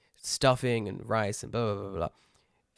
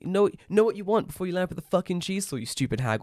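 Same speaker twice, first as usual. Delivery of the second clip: mock French rant; 7 semitones higher, 4 dB louder than usual. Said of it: "We do a stronger French accent".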